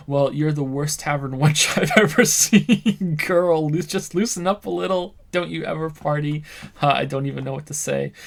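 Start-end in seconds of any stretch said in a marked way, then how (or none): 0.1-6.4 rude party guy. Acted. Drunken cop taunting Sylvie.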